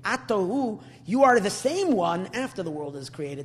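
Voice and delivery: chanted emphasis on same. Shown as a demonstration. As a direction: lean hard on the word same. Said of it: "the emphasis is not just".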